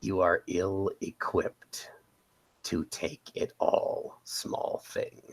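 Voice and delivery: slow, measured in-character taunt; lightly voiced slow, teasing seducer; seductive character voice. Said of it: "he'll say".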